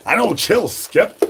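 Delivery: high squeaky mock reply. Streamer answering as Skip in a squeaky voice. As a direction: squeak it like a cartoon.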